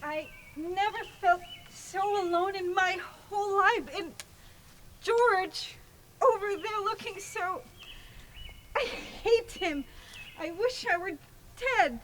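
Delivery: tearful despair. Acted. Bride's pre-wedding despair.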